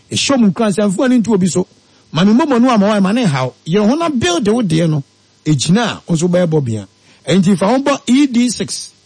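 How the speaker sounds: brisk upbeat advert voice; radio ad read. Acted. Host reading a sponsor advert on air, upbeat. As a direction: sell it to the listeners. Reads investment advert live.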